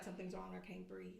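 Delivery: breathless husband. Retold or imitated. Husband quoted unable to breathe.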